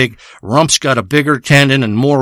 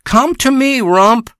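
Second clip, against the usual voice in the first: calling the cat; 8 semitones higher, slower than usual. Pretend. Showing the audience the cat call, much higher beckoning holler. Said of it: "You hear what I'm doing there?".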